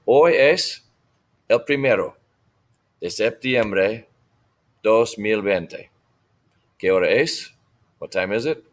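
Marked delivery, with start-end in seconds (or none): 0.0-5.9 slow phrase-by-phrase teacher modelling; model for repetition. Shown as a demonstration. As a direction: leave room for the class to repeat. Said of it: "So repitan".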